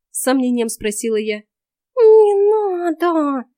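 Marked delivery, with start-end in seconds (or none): 2.0-3.4 high, very slow, loud cat hiss of a plea; the cat Vaska warns her from behind, hissing. Acted. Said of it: "прошипел у меня за спиной Васька".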